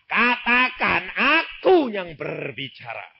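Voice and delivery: slow, commanding divine voice; a hint of a solemn divine command; voice of God. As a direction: speak as God insisting. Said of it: "aku bilang itu".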